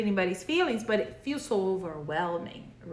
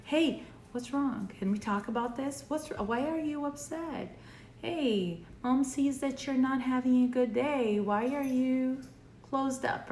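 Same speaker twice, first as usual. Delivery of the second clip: caring parent; 4 semitones higher than usual. Retold or imitated. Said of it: "would sit down and say".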